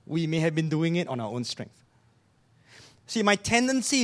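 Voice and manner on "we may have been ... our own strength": quiet and gentle. Real, not acted. Preacher gently telling the congregation they relied on themselves, softly. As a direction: ease it in gently, no push. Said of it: "can I quietly, just gently say".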